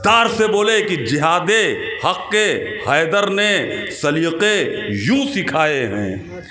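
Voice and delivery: phrase-by-phrase declamation with ringing pauses; जोशीला शेर-पाठ. Acted. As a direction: land each phrase separately, stretching its end. जोश में शेर. (रुक-रुक कर जोश से शेर पढ़ना)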